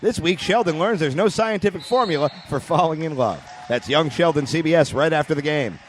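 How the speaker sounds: smooth sponsor read; announcer voice. Acted. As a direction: read it like a TV host.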